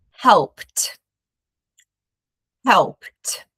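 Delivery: helped with a clipped final T, no E sound; helped as one syllable. Shown as a demonstration. Teacher modelling helped for students, no extra syllable. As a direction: say helped as helpt, one beat. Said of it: "Notice that we don't pronounce the E sound".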